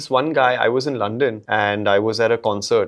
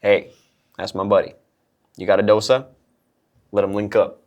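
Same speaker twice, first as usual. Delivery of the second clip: put-on Southern accent; 4 semitones lower than usual. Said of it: "a little bit of Southern accent".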